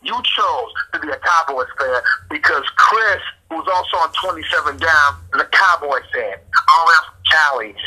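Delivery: going off in a heated rant; steamed up. Real, not acted. Scolding a friend for choosing the Cowboys, steamed up. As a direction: lay into them, real irritation. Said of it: "first time I've ever seen you steamed up like".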